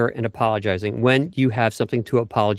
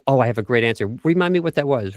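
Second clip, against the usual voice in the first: confident positive spin; faster than usual. Shown as a demonstration. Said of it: "I remember thinking".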